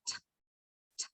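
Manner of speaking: "t" as a bare sound; crisp "t" phonics sound. Shown as a demonstration. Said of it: "the sound of letter T".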